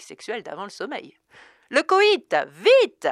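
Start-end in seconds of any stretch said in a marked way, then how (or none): 1.7-3.1 very loud, high panting shout; panting yell. A narrator's reading. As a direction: yell it breathlessly. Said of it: "hurlaient en chœur les deux voix haletantes".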